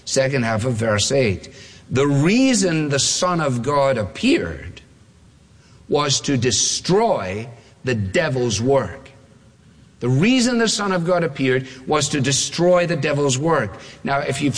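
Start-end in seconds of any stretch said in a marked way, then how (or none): 1.9-9.0 slow quoted reading. Shown as a demonstration. Preacher reading his text slowly to the congregation. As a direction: read the verse slowly and deliberately. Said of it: "Now here comes our quote".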